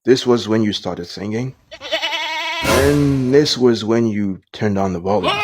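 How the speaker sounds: calm the boss down, a little nervous; nervous manager. Acted. Manager explains footage.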